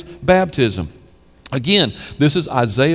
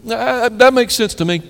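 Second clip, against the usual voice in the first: smug agreement; 4 semitones higher than usual. Retold or imitated. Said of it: "we always walk away saying".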